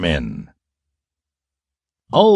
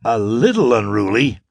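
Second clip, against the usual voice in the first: disbelieving rise on little; incredulous bleat. Acted. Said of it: "he bleated".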